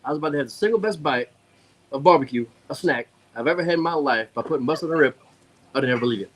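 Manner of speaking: a light Cajun imitation of Adam; Adam's Cajun accent. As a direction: lightly mimic a Louisiana Cajun friend raving about the rib. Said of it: "you know Adam's accent, borderline mild water boy".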